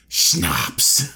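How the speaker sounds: put-on deep, punchy Austrian-accent reveal; low Austrian-accented punchline; Arnold Schwarzenegger. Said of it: "you know how he talks".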